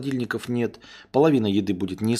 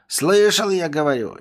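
insistent master; 6 semitones higher, 5 dB louder than usual. Acted.

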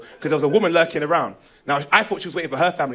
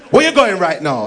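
Jamaican policeman; 5 dB louder than usual. Acted. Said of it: "One policeman come out of the bush".

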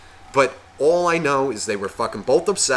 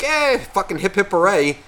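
mock cheering; 7 semitones higher than usual. Himself as child cheering divorce.

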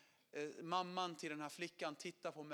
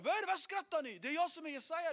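much higher, loud defiant cry; mock earnest young man; indignant protest; 9 semitones higher, 6 dB louder than usual. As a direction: protest at the laughing crowd. Indignant to laughing crowd.

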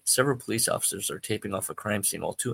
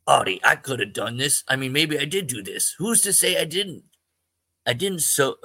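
anxious; 5 semitones higher, 4 dB louder than usual. Acted. Joe spiraling into worry.

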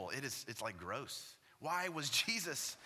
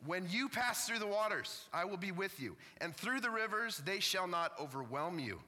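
pitched-up, resolute declaration to the congregation; emphatic proclamation; 3 semitones higher than usual. Real, not acted. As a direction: proclaim the verse with renewed force. Restarts the verse after choking up.

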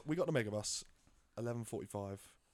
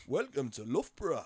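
Geordie bus driver; 3 semitones higher, 5 dB louder than usual. Retold or imitated. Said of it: "The driver was a Geordie as well".

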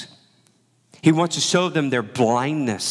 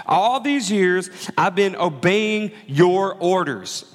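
slow, higher, resentful complaint; sulky tantrum; 5 semitones higher, slower than usual. Acted. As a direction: whine it out like a wronged son. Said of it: "He's throwing a tantrum".

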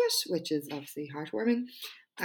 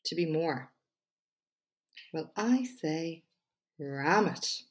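measured TED-style delivery with pauses; TED Talk voice. Pretend. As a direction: read it like a prepared TED Talk, punching key words. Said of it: "in my best TED Talk voice".

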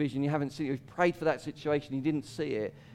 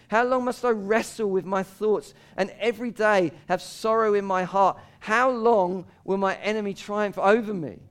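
lament; 5 semitones higher, 4 dB louder than usual. Acted. Reading lament psalm with passion.

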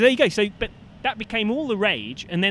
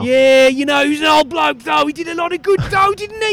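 Aussie tradie, pitched up; chirpy Aussie bloke; aussie tradesman; 7 semitones higher, 7 dB louder than usual. Acted. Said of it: "it's Brian".

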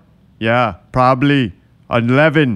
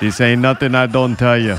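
catchphrase voice. Shown as a demonstration. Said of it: "Let me do my fucking thing".

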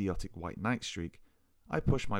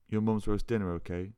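slurred. Acted. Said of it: "she slurred".

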